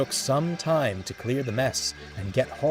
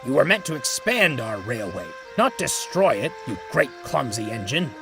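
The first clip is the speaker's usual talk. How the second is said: louder, scolding clumsy engine; fuming; 3 dB louder than usual. Acted. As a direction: tell him off, fuming. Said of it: "he fumed".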